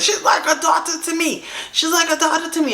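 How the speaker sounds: mocking a forced, overdone claim, pitched high; forced insistence. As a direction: repeat it as if forcing it. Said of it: "like, forcing it".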